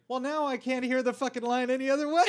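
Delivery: high, loud exasperated director; mock exasperated Tarantino. Co-host quoting the director at the table read, loud mock exasperation. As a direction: throw up your hands at the perfect line. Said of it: "And Tarantino was like".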